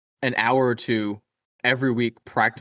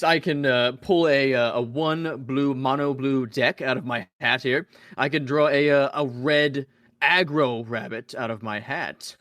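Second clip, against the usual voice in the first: slow, drawn-out corny magician; Magic Man voice; slower than usual. Pretend. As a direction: take your time like a smug stage magician. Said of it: "all my people have to sound like this".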